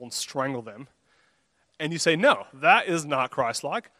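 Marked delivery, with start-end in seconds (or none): 2.2-3.9 slow, louder, deliberate refusal; firm self-rebuke. Acted. Churchgoer checking their own anger in a meeting, firm self-rebuke. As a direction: stop yourself firmly, word by word.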